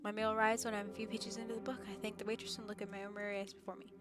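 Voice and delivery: reading the game's narration aloud; calm first-person story reading. Acted. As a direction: narrate the inner thoughts evenly. Reads visual novel narration.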